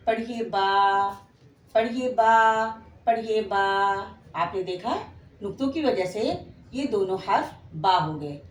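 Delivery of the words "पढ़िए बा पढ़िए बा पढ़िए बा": slow, drawn-out बा for pupils to copy; slow model reading. Shown as a demonstration. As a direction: stretch the बा out long like a teacher. (धीमे खींचकर बा)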